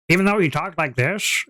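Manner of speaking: lightly voiced old shopkeeper; a hint of an odd old man's voice; weird old man. Game master recalling the shopkeeper for listeners, lightly voiced weird old man. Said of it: "He just talked like a weird old man".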